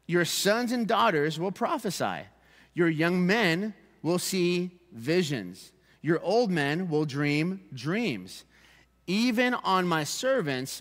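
slow, deliberate public Bible reading; scripture reading. Acted. Preacher reading Joel's prophecy to the congregation, slow and solemn scripture reading. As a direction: read it out slowly, letting each phrase stand.

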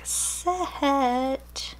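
odd, strangled wobble on set; weird voice. Real, not acted. Unboxing planner goodies for viewers, a weird wobbly set. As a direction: let set come out in a weird broken voice. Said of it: "that was a weird voice".

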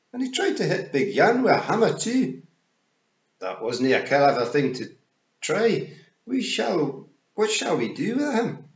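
high, loud Scots pictsie, accusing; sit in judgement in high Scots; Rob Anybody. Acted. Rob accusing the unconscious Roland, high Scots voice.

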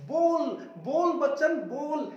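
teacher hamming up the drill for students; loud playful drill. Shown as a demonstration. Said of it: "मेरे साथ में बोलिए".

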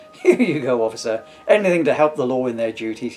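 loud, smiling and helpful; loud, cheerful and smiling. Acted. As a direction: beam as you hand it over. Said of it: "he smiled".

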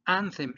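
tongue between the teeth on the TH of "Anthem". Shown as a demonstration. Teacher shows students the T H, "Anthem" with tongue between teeth. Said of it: "lengua entre los dientes".

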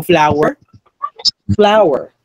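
"flower" as flow-er, two syllables. Shown as a demonstration. Teacher modelling flour and flower as alike, "flower" in two syllables. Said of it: "pronounced the same".

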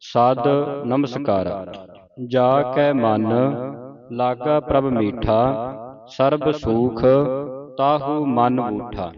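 measured phrase-by-phrase recital; sacred verse read out in deliberate phrases; scripture recitation. Shown as a demonstration. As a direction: recite the verse for students to follow.

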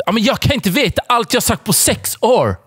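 squeaky whiny plea, half laughing; high pleading mock girlfriend. Girlfriend whining high at Sebastian to listen. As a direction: whine it up high, begging him to listen.

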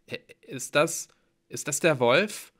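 falter, then ask with rising dread; afraid. A narrator's reading. Hero dreads the wolf, stammering nervously.

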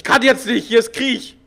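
laughing. Real, not acted. Joking about ignoring phone call.

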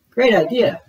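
excited. A narrator's reading. Dora excited.

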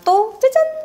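big high slow ta-da; excited ta-da. Real, not acted. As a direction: sing out the reveal brightly. Playful reveal of next item.

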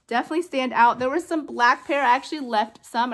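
giddy rush of excitement; hyper excited. Real, not acted. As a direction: gush about the find, all wound up. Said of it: "I don't know why I'm so hyper".

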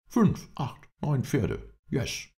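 high-pitched excited counting; excited cry. A narrator's reading. Englishman tallies the fallen horses, crying out excitedly. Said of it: "rief der Engländer".

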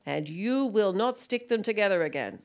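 mock-solemn child's decree; commanding little boy. Small son pointing at his mother, commanding. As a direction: lay down the law as a puffed-up small child. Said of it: "commanding language".

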